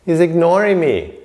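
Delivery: high-pitched, indignant acted grumbling; mock angry. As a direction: play an offended king, with a laugh creeping in. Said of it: "then he gets angry".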